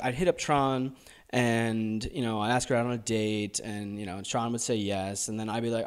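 speaking in a put-on American accent; an Australian doing an American accent. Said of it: "You did a hell of a job in that American accent".

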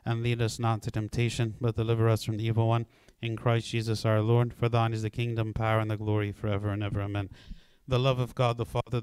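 steady, reverent prayer voice. Acted. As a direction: pray aloud to the class, unhurried. Leads closing prayer.

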